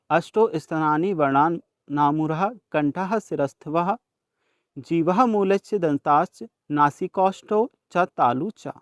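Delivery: slow, measured chanting of a shloka; teacher reciting a Sanskrit verse for students; Sanskrit verse recitation. Shown as a demonstration.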